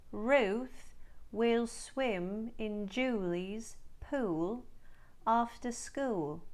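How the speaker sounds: slow Australian sentence drill; Australian practice line, slow and clear; Australian accent demo. Shown as a demonstration. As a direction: read it slowly in an Australian accent. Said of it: "Let's try some words and phrases for practice".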